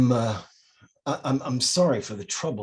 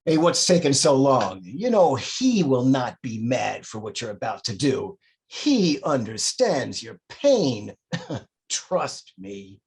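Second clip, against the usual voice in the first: taunting demon; 3 semitones higher, 4 dB louder than usual. Acted. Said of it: "He's a demonic being".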